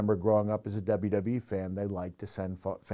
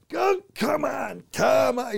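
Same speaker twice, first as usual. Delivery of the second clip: high, loud, slow cartoon rage; cartoonish fury; 7 dB louder, slower than usual. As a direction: bellow it like a raging cartoon wrestler. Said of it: "doing the classic".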